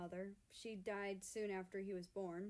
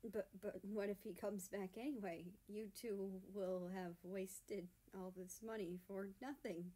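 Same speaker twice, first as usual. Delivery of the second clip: stammering. Acted. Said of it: "Weimar stammers".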